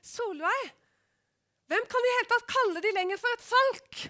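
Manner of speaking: mock her own arrogant remark; scornful retort. Woman retelling what she said to Solveig, scornful and loud. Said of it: "Tenk, sånn sa jeg".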